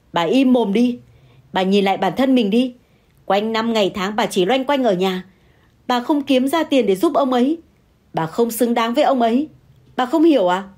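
shouting. Acted. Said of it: "Hà gào lên".

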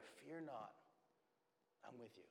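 hushed, very soft and low; whispering in the ear. Acted. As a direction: speak softly, as if close to someone's ear. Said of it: "hear him whispering in your ear".

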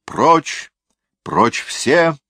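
high, urgent command to get out; acted shout. A narrator's reading. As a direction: throw the order out high, as to a whole room. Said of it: "он обернулся и закричал".

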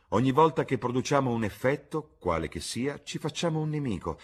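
lightly voiced epigram-making lord; witty Lord Henry. A narrator's reading. Lord Henry lecturing Gladys on reputation, witty. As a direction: pronounce it with lifted, emphatic phrases.

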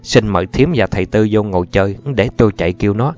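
mildly hearty host's welcome; cordial reply. Acted. Host inviting visitors in to sit, cordial. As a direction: answer obligingly, with a touch of welcome. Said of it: "Thầy Năm niềm nở đáp".

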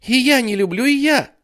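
put-on high, loud child's protest; little girl chiming in. Jennifer joins her brother's protest, high loud child. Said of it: "подхватила его сестрица".

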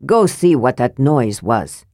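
a proud dwarf lord sizing up a stranger; mildly gruff dwarf voice; lightly voiced proud dwarf lord. Armen orders his men.

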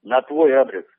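to someone hard of hearing. Real, not acted.

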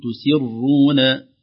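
تسرون with a full heavy ر, slowly. Shown as a demonstration. Teacher modelling the heavy ر slowly. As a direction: draw out تسرون with a dark ر. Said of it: "نقول".

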